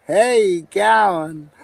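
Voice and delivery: high, slow mock Aussie hello; hammed-up Aussie greeting. Vlogger greets viewers in a hammed-up Aussie drawl. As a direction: stretch it out like a broad Aussie.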